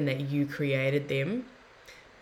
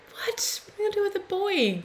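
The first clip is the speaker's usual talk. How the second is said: high breathless whispered squeak of panic; a hammed-up new boy mum's whispered panic; mock panic; faster than usual. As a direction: play it as a mock-horrified squeal. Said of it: "at first I was like".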